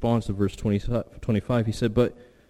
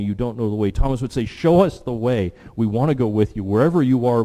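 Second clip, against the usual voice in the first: impassioned preaching; 2 semitones higher, 3 dB louder than usual. Real, not acted. Preacher recalls Thomas's years with Jesus to a congregation, impassioned. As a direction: preach with rising, pressing emphasis.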